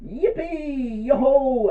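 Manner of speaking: very high, loud gleeful cheer; joyful whoop. Acted. Little butterfly told it can stay, jubilant whooping. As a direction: whoop like a little creature set free. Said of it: "the little butterfly said".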